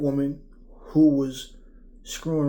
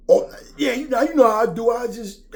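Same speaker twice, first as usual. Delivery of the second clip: much higher, louder bragging bro voice; over-the-top hype; 10 semitones higher, 9 dB louder than usual. Retold or imitated. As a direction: crank it up like showing off. Imitating the hyped-up talker.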